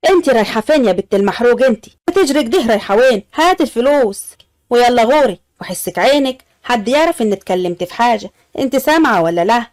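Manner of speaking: bossy lady lightly snapping at the maid; scolding threat. Acted. Lady warning the maid to tell nobody, scolding. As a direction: order her off with a stern warning.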